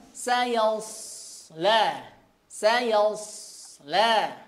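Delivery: sayasla with a thick sod; recitation demo. Shown as a demonstration. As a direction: read sayasla, sod heavy. (sayasla dengan sod tebal)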